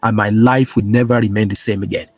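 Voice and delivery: prayer declaration. Acted. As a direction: declare each line for the flock to repeat. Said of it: "Say this with me right now".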